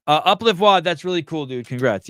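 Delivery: hammed-up congratulation; high sing-song mock praise; mock cheery reading. Reading a chat comment aloud.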